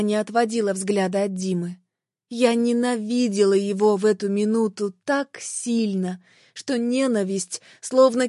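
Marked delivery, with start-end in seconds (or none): none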